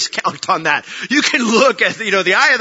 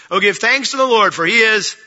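louder call and response; 3 semitones higher, 5 dB louder than usual. Shown as a demonstration. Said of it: "There we go".

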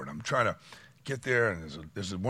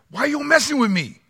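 higher, amused, streetwise question; translated line; 14 semitones higher, 7 dB louder than usual. Retold or imitated. Pastor Pancho's translation of God's question, higher and amused. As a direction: toss it off like a buddy. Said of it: "Pastor Pancho who translated".

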